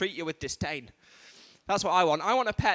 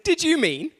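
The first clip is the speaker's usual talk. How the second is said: high, louder swooping assistant voice; phone voice assistant; 9 semitones higher, 6 dB louder, slower than usual. Acted. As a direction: query it like an automated assistant. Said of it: "it came back, it said".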